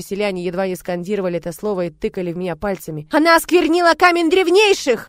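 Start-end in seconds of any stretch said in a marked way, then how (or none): 3.1-5.1 high, loud furious cry; angry accusation. Acted. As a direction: denounce her to the crowd. Villagers shouting accusations.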